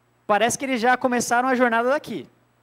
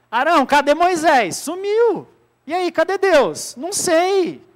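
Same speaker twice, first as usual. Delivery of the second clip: higher, louder demanding voice; agitated crowd; 6 semitones higher, 5 dB louder, slower than usual. Retold or imitated. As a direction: press him like an impatient crowd. (povo agitado cobrando Arão)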